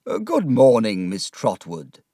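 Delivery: courteous greeting, a hint of a gentleman; polite lawyer. Mr Wickfield greeting Miss Trotwood politely. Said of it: "he said politely".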